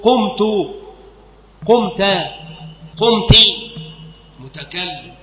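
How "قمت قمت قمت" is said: قمت repeated higher and louder; teacher calling out قمت; emphatic demo words. Shown as a demonstration. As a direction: ring out قمت, قمت, قمت clearly. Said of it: "تقول".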